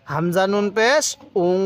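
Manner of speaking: উং held as a long nasal hum; teacher's sustained nasal ending on উং; ghunnah demo. Shown as a demonstration. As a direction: draw উং out through the nose. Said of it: "আরেকবার বলুন".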